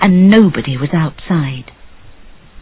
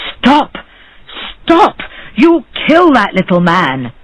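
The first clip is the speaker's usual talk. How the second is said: alarmed shout; 4 semitones higher than usual. A narrator's reading. Neighbour stops a beating.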